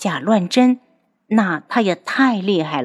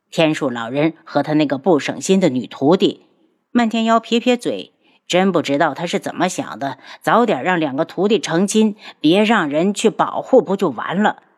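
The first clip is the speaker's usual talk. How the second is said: grumbling Mantianyao. Acted. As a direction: grumble dismissively.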